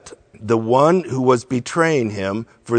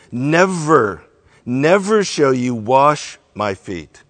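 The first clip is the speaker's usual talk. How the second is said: firm, louder refusal with weight on "Never"; strong reaction; 6 dB louder than usual. A narrator's reading. Peter refusing to let Jesus wash him, emphatic. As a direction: hit "Never" hard, then push on. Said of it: "he reacts to it pretty strongly".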